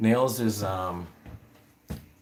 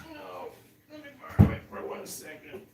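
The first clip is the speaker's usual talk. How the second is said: quick, breathy whisper to the pigs; whispered aside; 7 semitones higher than usual. Real, not acted. Whispering to her guinea pigs while taking their house, quick hushed whisper. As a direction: hush it fast, just for the pigs.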